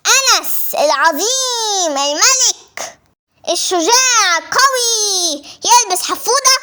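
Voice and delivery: slow, pompous self-praise; mock grandeur. The boy refusing a diaper, pompously slow. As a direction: stretch every title out grandly.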